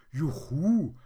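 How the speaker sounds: high, loud whoop; retold, ringing cheer; child's cheer. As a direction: imitate a child calling out in glee. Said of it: "hat mein Kind gerufen".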